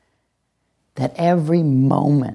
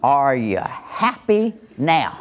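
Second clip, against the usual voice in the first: a hint of a bitter parent lecturing; scolding parent. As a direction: parent guilt-tripping a whining child at Disney. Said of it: "here it goes".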